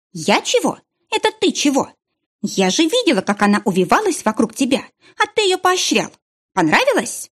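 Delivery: high, accusing jealous attack; jealous outburst. A narrator's reading. Jealous girlfriend accuses her boyfriend: high, angry outburst. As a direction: throw it at him, pitch climbing in jealousy.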